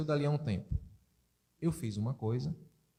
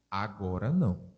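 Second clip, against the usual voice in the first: terse father; 9 semitones lower than usual. Retold or imitated.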